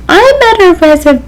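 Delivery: high, drawn-out condescending diva; Meryl Streep. Retold or imitated. Star calling the restaurant about a booking, condescending. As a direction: imitate a haughty star, stretching each word. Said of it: "like, condescending".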